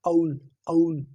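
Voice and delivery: औल drawn out slow, a blending into u; drawn-out aul. Shown as a demonstration. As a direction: stretch औल slowly, a sliding toward u. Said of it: "कुछ कुछ mixing सी ऊ की".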